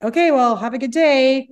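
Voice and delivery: retold awkward farewell; cop backing away. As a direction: imitate an officer making a polite exit. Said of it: "he was like".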